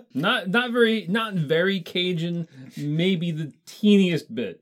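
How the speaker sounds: high, loud mock Louisiana accent; slow drawl with a hint of Cajun; faintly Cajun accent. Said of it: "northern Louisiana".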